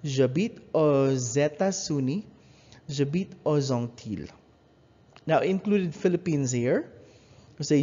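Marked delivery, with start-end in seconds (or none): 0.0-4.3 aux États-Unis and aux Antilles with z linking; liaison demo. Shown as a demonstration. Teacher drills the liaison examples, clear and even. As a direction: sound the x of aux as z before the vowel. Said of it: "notice how the X is pronounced".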